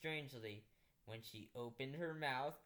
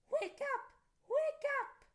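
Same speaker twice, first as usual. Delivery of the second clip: loud high shout; calling wake up; 8 dB louder than usual. Acted. Dream voices shout to wake the girl, loud and high. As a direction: rouse a sleeper from a dream.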